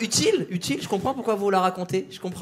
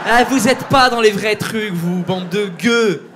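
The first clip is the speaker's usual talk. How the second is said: louder and slow, looking down on the peasants; mock haughty scorn; 6 dB louder, slower than usual. Comedian mocks latecomers as beggars, haughty slow scorn. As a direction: sneer it out grandly at the crowd.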